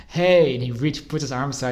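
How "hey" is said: bright, louder, higher "hey"; greeting call. Retold or imitated. Stranger greeting me on the road, calling out hey. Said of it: "And he says".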